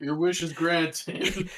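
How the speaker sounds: slow solemn genie voice. Pretend. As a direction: pronounce it grandly and slowly. Voicing the genie.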